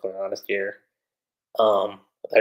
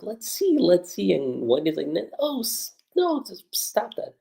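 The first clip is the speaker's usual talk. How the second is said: high-pitched mock fluster; retold flustered exchange; 8 semitones higher than usual. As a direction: imitate characters in a light, high voice. Retold teasing and flustered refusal.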